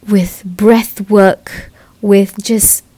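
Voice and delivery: slow, soft whisper of breath work; breathy whisper. Shown as a demonstration. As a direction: breathe the words out slowly. Demonstrating calm breath work.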